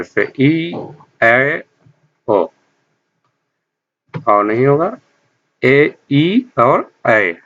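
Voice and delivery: ई and ए spoken very slowly with open lips; unrounded vowels demo. Shown as a demonstration. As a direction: stretch out ए, ई slowly for the class. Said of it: "किसी अन्य आकार में खुले हुए".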